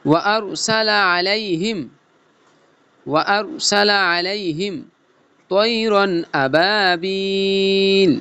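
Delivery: slow chanted phrases, a break after each; chopped-phrase recitation. Shown as a demonstration. Teacher modelling the line in pieces, slow chopped recitation. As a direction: recite in cut pieces with drawn-out long vowels. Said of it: "কাটা কাটা সুরে পড়ব".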